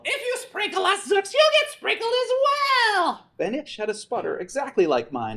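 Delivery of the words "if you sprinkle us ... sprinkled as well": high, loud taunting yell; yelled threat. Acted. Enemy pilot yells a warning mid-flight, high yell. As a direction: shout it across the sky. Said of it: "I heard a voice yell".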